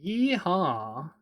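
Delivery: playful drawn-out cowboy holler; lightly put-on cowboy greeting; mock cowboy. Joking to viewers about being American, mock cowboy.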